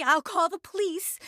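normal talking voice

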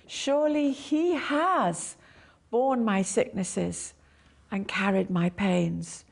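slow, lean on has; stress on has. Shown as a demonstration. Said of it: "emphasize one word at a time".

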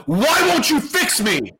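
screaming at God. Retold or imitated. Alone in a jail cell, crying out to God, high and desperate. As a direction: beg God to fix you, high and slow. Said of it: "as I'm screaming at God".

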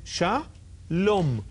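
Shalom read syllable by syllable, SHA then LOM; slow syllable reading. Shown as a demonstration. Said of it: "it separates the syllables and it says".

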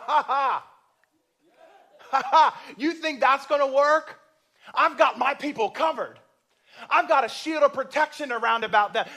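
loud, high, triumphant divine voice; God mocking enemies. God taunting the enemy from his throne, loud triumphant laughter. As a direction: laugh down at the schemers, then boom.

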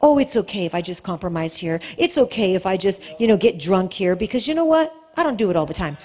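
low, quick mock self-justifying voice; mock excuse. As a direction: mimic a careless believer excusing himself. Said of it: "mocking a compromising believer".

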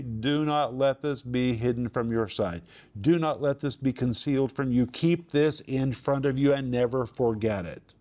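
firm warning on "do not let this", each phrase driven home; emphatic. Shown as a demonstration. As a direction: press "never forget it" on the listeners as a command. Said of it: "means emphatically".

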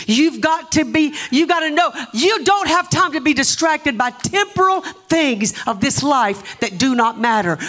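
high, insistent pulpit voice; emphatic preaching. Real, not acted. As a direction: drive the warning home to the church. Preaches to congregation.

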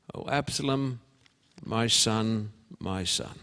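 a father's grief, rising then dying away; grieving lament. Acted. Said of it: "and wept".

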